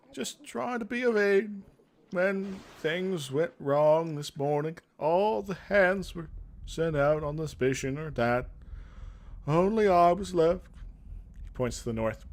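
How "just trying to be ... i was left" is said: put-on higher, slow and solemn young warrior; a lightly voiced solemn young soldier, slowed down; earnest young guard. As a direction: play a dutiful guard resigned to orders. Voicing Sevelin.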